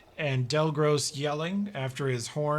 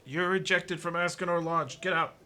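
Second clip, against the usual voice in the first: yelling; 4 semitones higher than usual. Acted. Guard yells from window.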